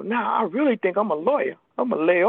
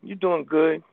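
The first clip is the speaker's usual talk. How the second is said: voice of the disease; 3 dB louder, slower than usual. Retold or imitated. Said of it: "the disease would tell me".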